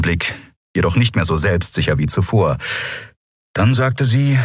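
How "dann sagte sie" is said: usual speaking voice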